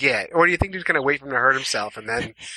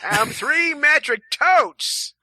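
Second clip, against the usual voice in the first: mock deadpan answer; much slower than usual. Joking weight in totes.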